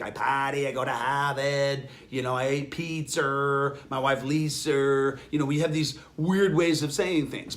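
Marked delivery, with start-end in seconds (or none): 0.0-5.2 lightly put-on Boston accent, slower at the end; a hint of a Boston masshole accent, drawn out. Shown as a demonstration. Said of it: "from the way I speak".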